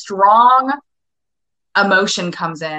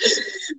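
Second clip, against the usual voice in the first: imitated gasp; 11 semitones higher, 7 dB quieter than usual. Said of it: "breathe, scream".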